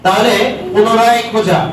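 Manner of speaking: slow, with পুনরায় leaned on hard and falling; teacher spelling out the meaning of পুনরায়; stress on পুনরায়. Shown as a demonstration. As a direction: spell it out slowly, hitting পুনরায়. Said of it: "teacher stresses key meaning".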